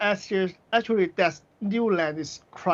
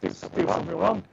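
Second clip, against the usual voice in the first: glitching audio; faster than usual. Real, not acted. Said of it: "your audio is bad".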